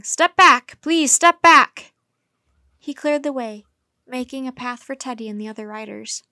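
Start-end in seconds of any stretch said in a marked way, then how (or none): 0.0-1.9 loud, high crowd-clearing shout. A narrator's reading. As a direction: order a crowd back at full voice.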